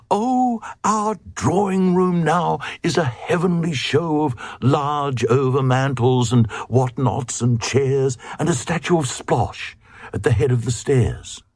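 high, gushing queen voice boasting of her drawing room; proud queen. A narrator's reading. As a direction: show off the new furniture, starting very high.

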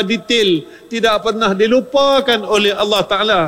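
high-pitched, fervent preaching. Acted. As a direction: lift the voice and preach it hard. Ceramah naik semangat. (ceramah bersemangat dengan nada tinggi)

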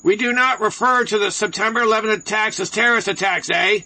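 lightly hammed-up Canadian accent; Canadian broadcaster voice. Radio host mocking CBC's memo to staff, light Canadian broadcaster voice. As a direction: read it like a mock Canadian broadcaster. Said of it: "I'll read it in my Canadian broadcaster's voice".

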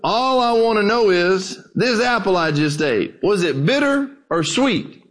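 a hint of a plain-spoken old preacher. Old preacher needling a scholar between bites, lightly acted. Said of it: "an old dark-skinned preacher".

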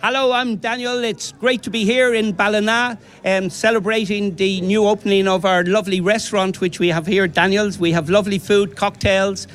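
put-on Daniel's posh Dublin accent, laid on lightly; a mild posh Dublin lilt, selling his restaurant. Host's guest promotes his Ballina restaurant in a posh Dublin accent. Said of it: "What's that accent".

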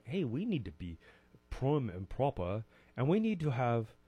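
hammed-up, deliberately poor English accent; mock a prim and proper English accent; bad English accent. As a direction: put on your worst English accent. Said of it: "say it in my worst English accent".

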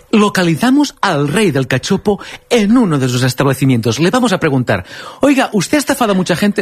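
dramatic TV exposé delivery; Gloria Serra impression. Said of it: "dice siempre".

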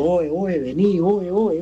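high, strained calls for help, reenacted; retold yelling. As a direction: call out to the guy in front, half-acted. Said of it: "y yo le estaba gritando".

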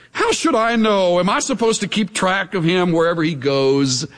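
mock-rebellious retort, jumping high at the start; hammed-up defiant back talk; acted defiance. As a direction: talk back to authority in indignant challenge. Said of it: "defiance and rebellion".

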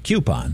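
"coupon" with a y glide after the k; "coupon" said low, opening on "kyoo"; coupon as KYOO-pon. Shown as a demonstration. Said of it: "which is how I grew up saying it".

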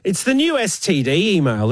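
ordinary talk

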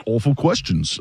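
badly faked British accent; half-hearted mock British accent; awful British accent. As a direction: attempt a clumsy British voice. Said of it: "that was an awful British accent".

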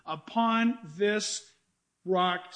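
"Upon this" drawn out very slowly, then "rock" set apart; slow stress on rock. Shown as a demonstration. Preacher lingers over "Upon this rock" for the congregation, slow and stressed. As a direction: pause before "rock", each word weighted.

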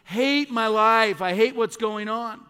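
emphatic mock exasperation, stretched words; self-loathing. Pastor voices people waking up self-loathing, exasperated. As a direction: act out someone fed up with their life. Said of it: "It's this self-loathing".

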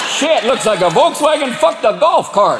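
mock the hybrid like a good old boy; Southern yokels. Gas station local hollering at a hybrid driver, Southern mockery.

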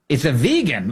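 vegan with a long ee, vee-gun; vegan said vee-gan. Shown as a demonstration. Host mocks the president's vegan, saying vee-gan. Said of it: "how to pronounce that thing".

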